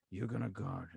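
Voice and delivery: low, raspy voice, lightly done; a hint of a raspy coach; Doc Rivers. Coach giving an order, low raspy impression. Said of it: "one of those low, raspy voices".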